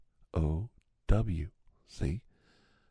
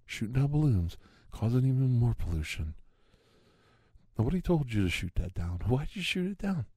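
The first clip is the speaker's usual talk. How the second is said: jab every question at him; indignant rant; 7 semitones higher than usual. Acted. Ranting conspiracy man accuses the president, high indignant rant.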